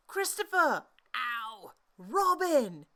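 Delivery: loud high call from above. Acted. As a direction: shout down from the sky. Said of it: "called out the cloud".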